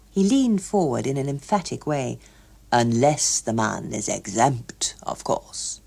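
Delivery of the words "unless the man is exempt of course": slow, dropping to a whisper; lightly voiced confiding clerk; confiding official. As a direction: lean in and confide. Hughes Evans leans forward.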